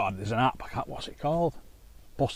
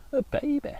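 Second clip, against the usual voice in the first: put-on baby voice; 3 dB louder than usual. Mock baby voice joke.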